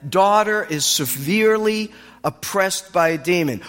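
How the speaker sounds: drawn-out, earnest plea for help; pleading mother. Acted. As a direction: beg slowly, leaning on each phrase. Acts mother begging for help.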